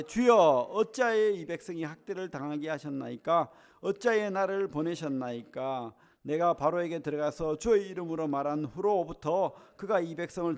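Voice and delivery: steady, measured Bible reading aloud; scripture reading. Acted. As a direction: read the verse with the congregation, evenly. Congregation reads scripture aloud.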